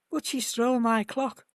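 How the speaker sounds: retold line with a slight quiver. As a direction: let the voice tremble a little on the hurt words. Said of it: "says with a quiver in his voice".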